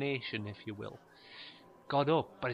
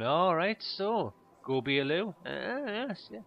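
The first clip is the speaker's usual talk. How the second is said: higher, louder chummy till guy; overfamiliar shop guy; 5 semitones higher, 4 dB louder, slower than usual. Retold or imitated. Cashier chatting up a customer, mock-matey. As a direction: lay on the nosy cashier's matey charm. Shop assistant voiced in story.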